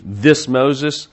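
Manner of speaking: a touch of contempt on "this"; contemptuous. Shown as a demonstration. Pastor showing how the people name Moses, mildly contemptuous. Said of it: "I think the contempt".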